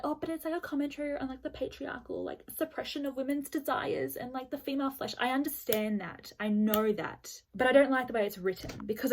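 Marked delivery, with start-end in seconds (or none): 0.0-5.1 higher, mock-earnest lecturing voice; lightly mocked pretentious reviewer; mocking critic. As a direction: parody a smug reader explaining the book. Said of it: "don't come at me and be like".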